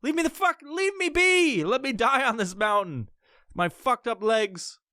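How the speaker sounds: high squeaky put-on voice; mock high nagging voice. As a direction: whine it like a cartoon pest. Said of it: "So they all wanna fucking".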